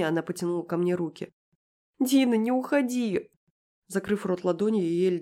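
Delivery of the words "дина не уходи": высокий, медленный детский плач; протяни сквозь слёзы; плач девочки. A narrator's reading. Рыдающая девочка тянет руки. (рыдающая девочка)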